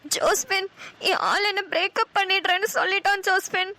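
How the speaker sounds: tearful complaint to a friend; acted weepy heartbreak; crying. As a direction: pour it out through mild tears. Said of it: "இப்பதான் உட்கார்ந்து அழுதுட்டு இருக்க".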